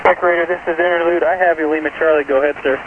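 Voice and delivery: thin, distant radio transmission; crackly military radio. Real, not acted. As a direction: voice heard over a radio link. Interlude station answering over radio.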